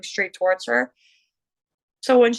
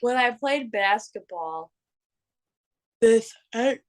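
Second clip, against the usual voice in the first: talking through a yawn; slower than usual. Real, not acted. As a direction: speak mid-yawn, words stretched. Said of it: "Are you done yawning?".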